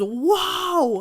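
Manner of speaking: high, drawn-out mock cry; hammed-up high "whoa"; mock scream. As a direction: imitate a shocked onlooker's scream without full volume. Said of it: "and she screams".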